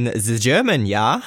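put-on German accent, briefly; hammed-up German "ze" and "ja"; mock German accent. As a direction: slip into a jokey German accent. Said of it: "just offended everybody in Germany".

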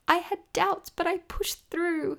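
high, slow mock skater voice; imitating the skater. Fan imitating the skater in the kiss and cry, high and slow. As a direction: lift the pitch high and drag it out, playing the skater. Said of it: "He was like".

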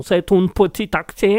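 botched German accent; bad German accent. Shown as a demonstration. Host mangling accents for listeners, clumsy German accent. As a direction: attempt an accent that lands in German. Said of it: "Et là, c'était de l'allemand".

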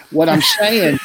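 winded mid-sentence; breathless, gasping between words; out of breath. Real, not acted. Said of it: "That's why you're out of breath".

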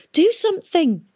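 high urgent gasp; gasped plea. A narrator's reading. Catherine gasping at Nimmo to help the drowning man, alarmed. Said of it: "gasped Catherine".

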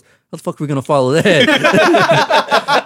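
high, loud, drawn-out incredulous outburst; mock disbelief. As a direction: imitate a stunned friend, breaking into laughter. Acting friend's disbelief, cracking up.

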